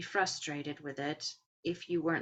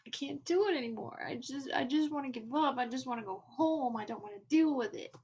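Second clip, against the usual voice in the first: whiny; 6 semitones higher, faster than usual. Pretend. Voicing the exhausted runner's despair.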